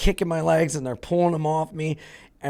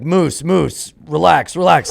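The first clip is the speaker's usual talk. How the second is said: louder, urgent calming of a friend; calming shout; 4 semitones higher, 6 dB louder, slower than usual. Retold or imitated. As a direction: hold your buddy back with your voice. Friends calming the angry guy.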